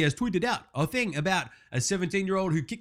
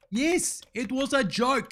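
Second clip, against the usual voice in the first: higher-pitched, put-upon protest; indignant, high retort; exasperated; 4 semitones higher, slower than usual. Acted. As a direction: defend your joke with rising exasperation. Defending his joke against a reply.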